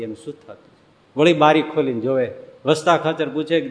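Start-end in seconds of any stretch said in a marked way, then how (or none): 0.0-0.8 worried murmur. Acted. Wife worrying alone at night.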